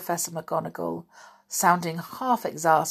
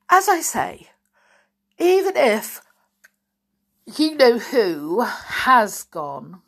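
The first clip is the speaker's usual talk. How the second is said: much higher, louder, slowing down; anxious insistence; 5 semitones higher, 7 dB louder, slower than usual. A narrator's reading. McGonagall worries you-know-who is really gone, high and tense. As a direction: voice rising with worry.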